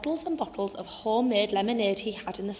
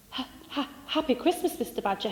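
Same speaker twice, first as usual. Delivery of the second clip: timid; 3 semitones higher, 3 dB quieter than usual. Acted. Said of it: "he said timidly".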